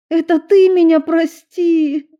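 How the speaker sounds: high, loud tearful outburst; crying out through tears; loud weeping plea. A narrator's reading. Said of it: "Вновь шмыгнула носом Ева".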